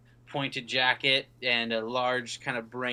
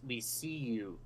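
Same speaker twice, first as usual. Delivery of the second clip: eerie whisper; 8 dB quieter, slower than usual. Acted. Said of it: "as they say".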